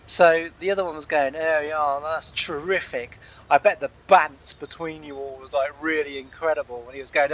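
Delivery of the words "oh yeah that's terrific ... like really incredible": lightly mimicked posh English accent; mock middle-class English posh; posh speak. Man mimics two pub-crawlers bantering, mock posh accent. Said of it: "they were quite posh beaked".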